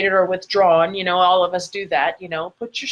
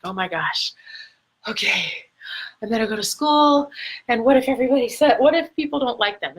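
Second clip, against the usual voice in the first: mock freaking out; faster than usual. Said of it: "like, freaking out".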